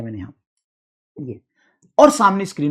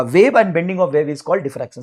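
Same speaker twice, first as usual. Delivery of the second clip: dictation; much slower than usual. Shown as a demonstration. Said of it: "dictating definition".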